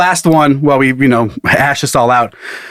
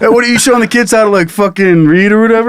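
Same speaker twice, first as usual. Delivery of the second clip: mock scolding wife; 6 semitones higher, faster than usual.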